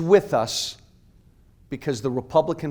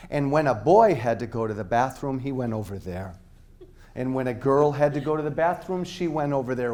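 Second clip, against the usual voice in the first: slow mock-simple; 3 semitones lower than usual. Shown as a demonstration. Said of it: "I'm gonna speak really slowly".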